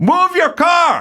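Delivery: mock very high, bossy, demanding shouted yell. Retelling how a driver yelled from his window: imitating a man yelling. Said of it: "And he goes".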